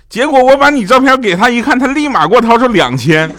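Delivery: very high, loud, hammed-up excitement; triumphant mother. Mother to daughter about the payout, triumphant. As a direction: crow the punchline like a thrilled mum.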